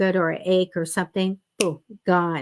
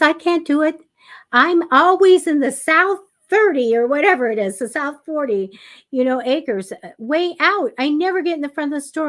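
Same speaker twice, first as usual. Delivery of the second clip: higher whiny sister voice, fast at the end; imitating the sister; 6 semitones higher, 4 dB louder than usual. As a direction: mimic a sister complaining she never parks close. Sister complaining about parking spots.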